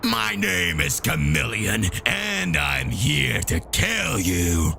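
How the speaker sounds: slow, low villain intro; slow villain Chameleon. Acted. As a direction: introduce yourself with menace. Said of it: "he introduces himself".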